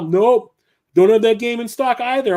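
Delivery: a hint of a smug teen clerk; smirking clerk. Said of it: "still got that stupid smile".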